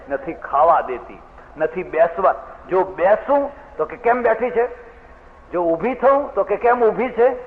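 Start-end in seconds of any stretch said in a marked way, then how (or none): 4.0-4.9 sharp, higher mock scolding of a mother-in-law; daughter-in-law imitates her mother-in-law's nagging, higher-pitched. Woman quotes nagging mother-in-law. 6.6-7.3 sharp, higher mock scolding of a mother-in-law; daughter-in-law imitates her mother-in-law's nagging, higher-pitched. Woman quotes nagging mother-in-law.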